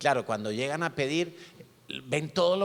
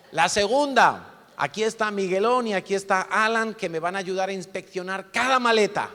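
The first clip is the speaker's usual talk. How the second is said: a bit of a sergeant; 6 semitones higher, 6 dB louder than usual. Retold or imitated. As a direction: threaten the kids like a drill sergeant. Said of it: "como un poquito sargento".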